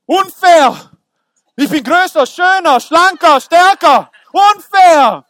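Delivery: high, loud whiny outrage; indignant protest. Retold or imitated. Preacher mimicking his jealous student self, loudly protesting. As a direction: complain loudly like a wronged child.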